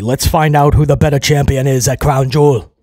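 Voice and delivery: a light put-on accent in Gunther's manner; mild mock of Gunther's foreign accent. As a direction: imitate Gunther's accent, only half committed. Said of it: "I don't know what accent that was".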